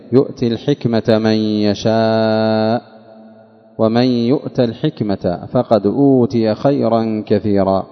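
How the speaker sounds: slow, measured tajweed reading; Quran recitation. Shown as a demonstration. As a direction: recite with drawn-out vowels and held nasals. Recites the verse. (تلاوة متأنية مرتلة)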